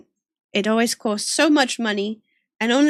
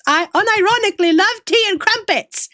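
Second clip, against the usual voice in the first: higher and louder, insisting on the love of tea; emphatic declaration; 10 semitones higher, 4 dB louder than usual. Real, not acted. Insisting to Zyphos she truly loves tea and crumpets, higher and louder. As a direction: insist on it, playfully defiant. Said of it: "okay, Zyphos?".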